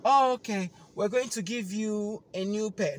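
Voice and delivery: smooth it over quickly; placating agent. Retold or imitated. Agent offering a new pair on the phone, placating.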